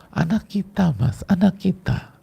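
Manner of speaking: wife finally tells her husband, high and tearful; tearful plea. Acted. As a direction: break the news through tears, held back a little. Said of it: "Nah, gitu misalnya".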